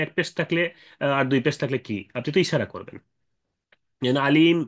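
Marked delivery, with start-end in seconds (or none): 4.3-4.6 আলিম stretched, closing on a vowelless m; ishmam ending. Shown as a demonstration. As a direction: close আলিম on m with rounded lips. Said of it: "বলে ইশারা করবেন".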